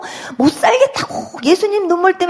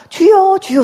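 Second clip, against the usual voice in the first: louder, higher cry of 주여; crying out to the Lord; 6 semitones higher, 5 dB louder, slower than usual. Retold or imitated. Dreamer crying out to the Lord in the church, loud prayer cry. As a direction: call out 주여 in prayer. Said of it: "소리가 나와요".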